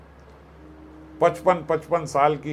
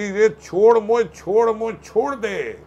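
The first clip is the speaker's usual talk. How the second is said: high, pleading cry to let go; Putana screaming; 5 semitones higher, slower than usual. Acted. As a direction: shout it as the demoness in pain. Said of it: "जोर जोर से पूतना चिल्लाने लगी".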